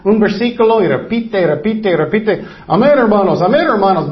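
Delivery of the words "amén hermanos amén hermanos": a hint of a droning preacher chanting amen; mock repetitive preacher. Pastor mocking churches that teach nothing, mild mock preacher chant. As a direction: lightly parody a preacher who only repeats. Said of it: "veinte mil veces".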